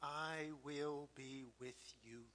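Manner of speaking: soft, hushed words of comfort; tender whisper. Retold or imitated. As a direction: whisper it like a promise to a child. God's reassurance, tearfully retold.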